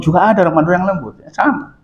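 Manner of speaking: high, quick, softening voice; gentle. Shown as a demonstration. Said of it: "Tapi juga bisa lembut".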